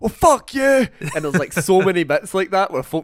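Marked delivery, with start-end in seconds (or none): 0.0-0.9 higher, louder mock snap back; imitating a guttural yell, pitched way up; mock outburst. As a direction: fire it back as a hammed-up outburst. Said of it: "she'll be like".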